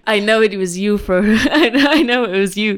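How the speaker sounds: playful pirate-mobster mashup; lightly voiced pirate godfather, breaking into laughter; mafia pirate. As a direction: accuse someone as a half-joking pirate mob boss. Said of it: "combining the mafia voice with the pirate voice".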